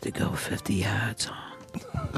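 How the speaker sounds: hushed whisper. Real, not acted. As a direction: whisper it low and slow. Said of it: "Why are you whispering like that?".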